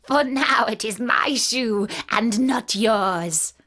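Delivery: slow, possessive witch voice; lightly voiced gloating witch; witch's retort. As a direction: lay claim to it slowly, as a witch. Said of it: "retorted the witch".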